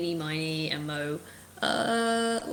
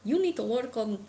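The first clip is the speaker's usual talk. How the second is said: put-on raised, haughty British father scolding his boys; spectral head's accent; 4 semitones higher than usual. Disembodied father head berating his three sons, haughty. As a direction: sneer down at them like a disappointed parent. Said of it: "you hear this spectral, uh, head just".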